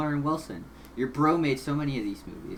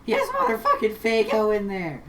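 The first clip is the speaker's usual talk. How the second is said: outraged disbelief; 8 semitones higher, 9 dB louder, slower than usual. Real, not acted. Outraged at Faygo in game.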